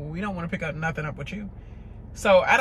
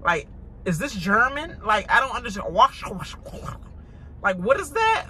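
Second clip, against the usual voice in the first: mock confusion; 2 semitones higher than usual. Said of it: "I be like".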